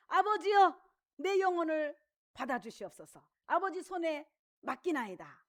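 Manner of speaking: prayerful. Shown as a demonstration. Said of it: "이렇게 하고 돌아가셨죠".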